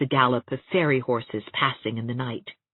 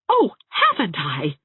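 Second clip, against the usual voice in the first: louder, slower exclamation; cried out; 3 semitones higher, 4 dB louder than usual. Acted. Anne to Catherine, crying out in protest. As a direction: cry it out in protest. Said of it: "cried Anne".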